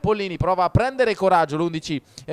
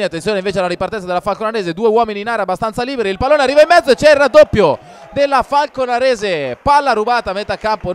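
excited commentary; 3 semitones higher, 6 dB louder, faster than usual. Real, not acted. Counterattack in live commentary.

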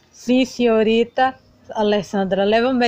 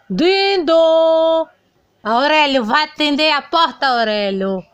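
calling out; 4 semitones higher than usual. Acted. Child calling out in play.

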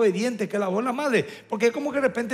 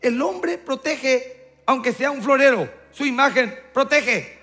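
forceful preaching; 4 semitones higher, 5 dB louder than usual. Acted. Preaching climax.

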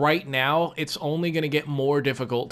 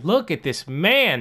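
louder, slow, disgusted repeat; exasperated; 3 semitones higher, 4 dB louder than usual. Real, not acted. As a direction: drag it out in disbelief.

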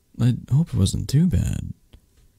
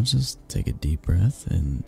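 whisper to self; 6 dB quieter than usual. Acted. Psyching herself up alone.

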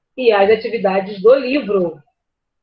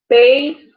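"Peixe" split as pei - xe, first part loud; syllable by syllable; 4 semitones higher, 6 dB louder than usual. Shown as a demonstration. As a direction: punch "pei", pause, then "xe". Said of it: "depois o che".

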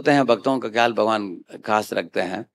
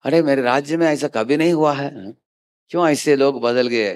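lightly acted surprise, pitched higher; a touch of bewildered disbelief, imitated; mild retold astonishment; 4 semitones higher than usual. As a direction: voice the puzzled king's surprise, lightly. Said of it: "बड़ा आश्चर्य हुआ".

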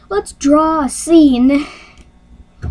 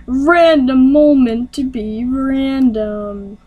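slow, drawn-out show title announcement; segment announcer; slower than usual. Pretend. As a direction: stretch each word like a segment title.

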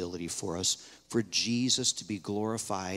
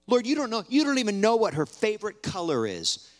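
retold accusing prayer; 3 semitones higher than usual. Mother questioning God about her daughter, retold as mounting reproach. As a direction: start hushed with long pauses, climb to a raised, pitched-up challenge. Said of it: "I said some really awful things to the Lord".

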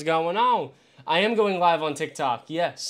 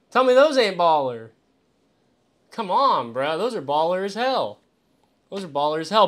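louder, pumped up bragging; hyped boast; 6 dB louder than usual. Real, not acted. Streamer bragging to chat about cheap glasses, hyped. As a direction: sell it like the coolest thing ever.

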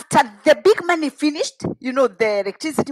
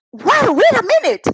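surprised; 10 semitones higher, 4 dB louder than usual. Real, not acted. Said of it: "her own outrage".

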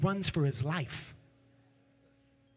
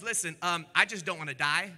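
a scared soldier pleading quietly; 5 semitones lower, 4 dB quieter than usual. Retold or imitated. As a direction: lower and softer, begging for his life. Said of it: "the third soldier comes up and he says".

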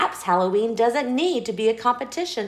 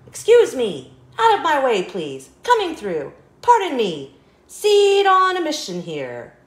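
louder calls to clear the way; pushing through a crowd; 3 semitones higher, 4 dB louder than usual. Acted. Seed hurrying past neighbours, loud calls to clear the way. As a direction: elbow through the crowd, calling out.

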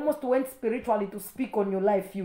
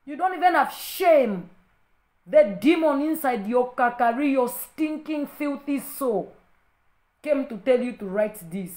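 real indignant scolding, pitched up; angry rebuke; 2 semitones higher, 4 dB louder than usual. Real, not acted. Rebuking a commenter who mocked her accent, angry. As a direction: scold with heavy, raised emphasis.

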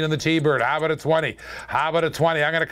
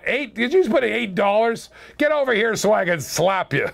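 playfully indignant, pitched up; mock outrage; 4 semitones higher than usual. Auctioneer teasing a bidder over eight dollars, mock outrage. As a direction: pretend to be affronted, half-joking.

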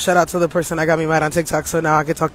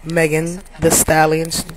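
announcer voice; slower than usual. Acted. Mock livestream announcement.

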